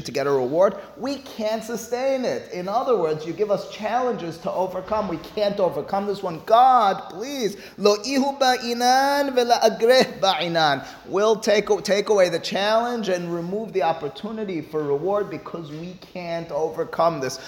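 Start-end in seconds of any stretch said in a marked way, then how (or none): 0.9-10.9 high, imploring cry; pleading with God. Retold or imitated. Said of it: "they're crying out to God". 11.1-17.4 acted plea in a raised voice; retold appeal, easing down by the end; pleading with God. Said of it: "they're crying out to God".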